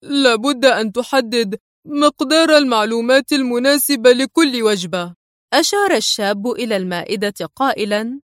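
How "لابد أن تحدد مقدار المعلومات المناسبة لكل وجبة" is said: a hint of hungry eagerness; lightly voiced eager prisoner. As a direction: press him, wanting the food. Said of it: "في لهفة".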